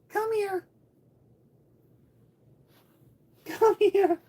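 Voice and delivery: very high squeaky pet call. Real, not acted. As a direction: coax the cat, pleading. Calling cat to come.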